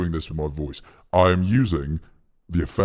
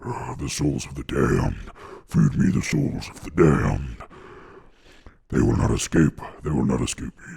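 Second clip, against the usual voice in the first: mock demonic muttering to Satan; evil child impression. Streamer imagining the boy summoning Satan, mock evil child voice. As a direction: play a possessed kid talking to himself. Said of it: "I imagine that's how the kids sound".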